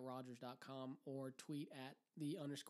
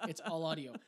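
laughing through the words; 7 dB louder than usual. Real, not acted. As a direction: say it while cracking up. Repeats the line, laughing now.

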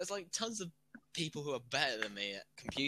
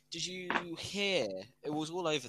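excited; 5 semitones higher, 3 dB louder than usual. Real, not acted. Gossip lead-in.

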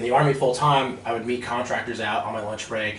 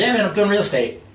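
much higher, louder boast; excited brag; 10 semitones higher, 5 dB louder than usual. Retold or imitated. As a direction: rub the success in. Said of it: "I was so excited".

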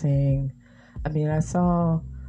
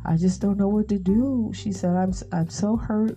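mildly higher, a touch of tearful distress; imitating a crying reporter; 4 semitones higher than usual. Reporter breaking down on air, a mild tearful imitation. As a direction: lightly act out her breaking down. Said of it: "she just broke down and she started crying".

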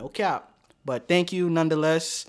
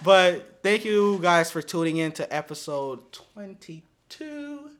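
slow outro announcement; slower than usual. Acted.

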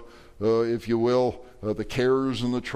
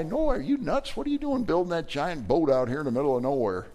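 mocking passerby; 5 semitones higher than usual. Passersby mock Noah.

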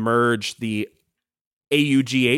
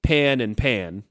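Southern pin-pen merger; 2 semitones lower, slower than usual. Shown as a demonstration. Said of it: "in a lot of Southern accents becomes pan and pan".

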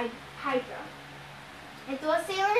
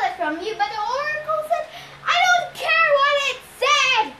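loud, rising into a bellow; 5 semitones higher, 5 dB louder than usual. A narrator's reading. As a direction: roar it at her. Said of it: "Ares bellowed".

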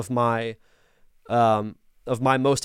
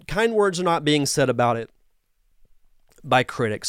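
throat catching on spit mid-sentence; choking on spit. Real, not acted. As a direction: talk while choking on own spit. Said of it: "Sorry, I'm choking on my own spit".

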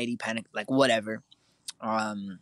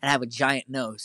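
ordinary delivery

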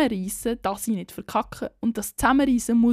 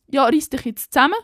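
mock pep talk; 2 semitones higher, 7 dB louder than usual. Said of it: "motivierende Sachen zum Beispiel".

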